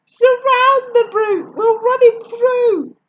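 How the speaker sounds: high, loud war whoop; battle scream. A narrator's reading. French mob charging the snail, a loud high war whoop. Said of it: "they screamed".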